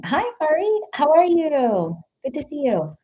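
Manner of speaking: high-pitched, drawn-out hello; friendly greeting. Real, not acted. Reader welcoming a viewer who just joined, friendly high-pitched greeting. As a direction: greet them sweetly up high.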